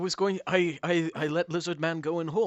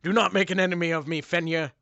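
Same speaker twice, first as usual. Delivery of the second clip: booming demon lord; 2 semitones higher, 5 dB louder than usual. Acted. GM voices menacing dog-god.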